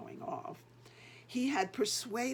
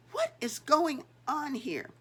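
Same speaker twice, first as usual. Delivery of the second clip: higher, louder angry demand; furious shout; 6 semitones higher, 6 dB louder than usual. Acted. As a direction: boss bursting in with fury. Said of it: "voice charged with fury shout".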